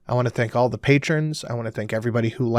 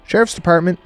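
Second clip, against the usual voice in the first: higher, bright-toned Southern receptionist; cheerful southern accent; 6 semitones higher, 3 dB louder than usual. A narrator's reading. Receptionist answering the phone, cheerful Southern accent. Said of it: "she said with a cheerful voice and a southern accent".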